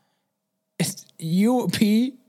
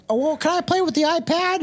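much higher mock child asking; father mimicking his child asking for the iPad, much higher; whiny kid voice; 11 semitones higher than usual. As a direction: plead like a little kid. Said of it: "the kid's like".

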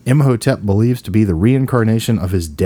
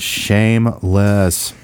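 drawn-out mock scold; much slower than usual.

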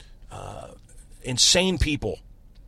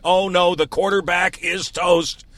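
movie quote voice; 5 semitones higher, 5 dB louder, slower than usual. Retold or imitated. Quoting a movie line.

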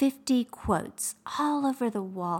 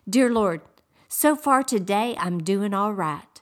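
quoted prayer; 4 dB louder than usual. Retold or imitated. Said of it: "I heard someone pray this prayer".

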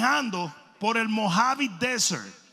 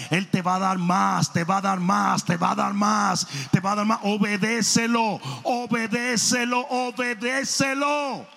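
preaching refrain. Acted. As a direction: drive the refrain home, slowing each time.

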